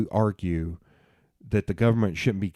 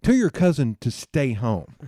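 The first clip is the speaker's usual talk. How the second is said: slow, emphatic redneck scolding; drawn-out Southern redneck order; 4 semitones higher, 3 dB louder than usual. Shown as a demonstration. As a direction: lay down the law in redneck. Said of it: "I'm going to my redneck voice".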